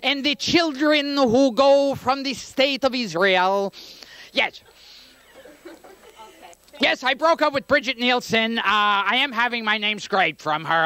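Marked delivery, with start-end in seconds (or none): 0.0-4.6 slow solemn rabbi sermon; lightly voiced rabbi eulogy. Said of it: "I put on my rabbi voice and go".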